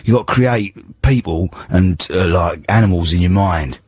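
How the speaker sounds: lightly voiced London tough-guy act through a croaky cold; a hint of a Cockney film hard man; Ray Winstone. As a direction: pretend to be a gruff Cockney actor. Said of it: "Ray Winston".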